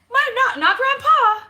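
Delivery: high, laughing correction. Real, not acted. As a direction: laugh through the words.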